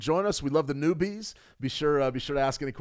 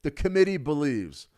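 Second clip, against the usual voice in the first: formal Fed phrasing. Shown as a demonstration. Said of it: "They say".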